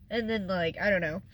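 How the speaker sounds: normal talking voice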